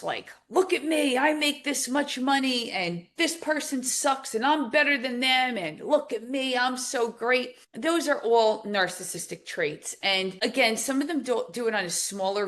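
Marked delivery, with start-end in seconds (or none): 0.5-7.6 raised, puffed-up bragging; a hammed-up braggart crowing about himself; mock grandiose boasting. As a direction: imitate a show-off praising himself. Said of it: "somebody who's very grandiose".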